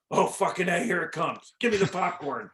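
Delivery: eager, lightly acted aside; retold excitement. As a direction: relive the thrill of a show about to start. Acted eager reaction in a story.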